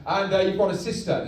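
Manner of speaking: lightly voiced villain dad, hesitant; Darth Vader. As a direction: break family news awkwardly in your own register. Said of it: "I'm your dad, Darth Vader".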